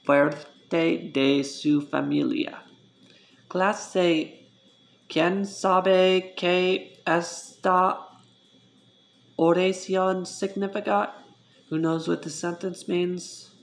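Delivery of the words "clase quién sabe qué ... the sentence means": higher, slow teacher calling on class. Pretend. Playing teacher asking class.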